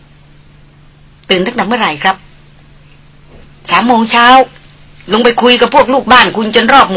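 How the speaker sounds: lightly voiced haughty young lady scolding; mock him with a sneer, slowing the jibes; Darin teasing. (ดารินพูดเหน็บแนมแบบคุณหญิงถือตัว)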